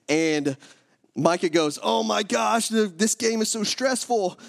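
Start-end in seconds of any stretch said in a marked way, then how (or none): 1.8-4.4 imitating a stressed-out little boy, high-pitched; high, drawn-out mock fretting; overwrought kid. Eight-year-old at a close football game, high dramatic fretting.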